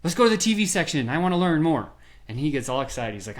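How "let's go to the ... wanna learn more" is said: higher, louder, eager mock call to the clerk; eager call-back. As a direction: wave the salesman back over excitedly. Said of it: "and you're like".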